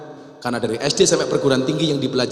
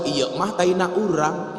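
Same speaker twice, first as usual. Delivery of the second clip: Sundanese reply; 2 semitones higher, 5 dB quieter, slower than usual. Retold or imitated. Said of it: "Dijawab sama orang Sunda".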